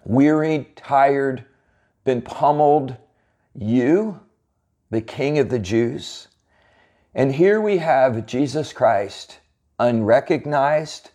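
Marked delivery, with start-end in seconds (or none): 3.5-6.3 "You," raised and set apart before the king of the Jews; stress on You. Shown as a demonstration. Preacher repeating Pilate's scornful "You," question with stress. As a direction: lift "You," then pause and drop for the rest. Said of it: "So it's more like Pilate is saying".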